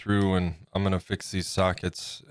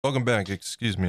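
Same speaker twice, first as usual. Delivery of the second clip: talking through a mouthful of food; cheeks stuffed full; 3 semitones higher than usual. Real, not acted. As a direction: say it round a big bite. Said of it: "I have a mouthful of food".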